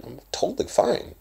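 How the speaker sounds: emphatic. Real, not acted. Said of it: "I say that so emphatically".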